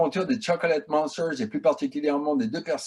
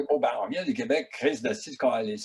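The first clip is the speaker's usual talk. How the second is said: mock Québécois accent, a little lower; 4 semitones lower, 3 dB quieter than usual. Shown as a demonstration. Director joking about filming in French, Québécois accent. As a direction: put on a Québécois accent with local swearing. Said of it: "avec un accent québécois".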